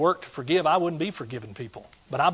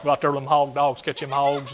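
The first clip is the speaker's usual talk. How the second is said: East Texas hunting talk. Pretend. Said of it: "my voice just changes".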